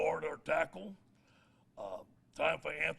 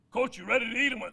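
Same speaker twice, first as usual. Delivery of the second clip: higher, louder, eager mom voice; an excited hostess calling you to eat; 7 semitones higher, 11 dB louder, faster than usual. Retold or imitated. Recruit's mom inviting coach to eat chili, excited. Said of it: "And she goes".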